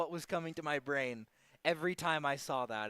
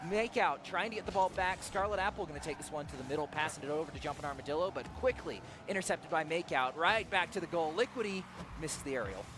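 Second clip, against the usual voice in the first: live play-by-play. Acted.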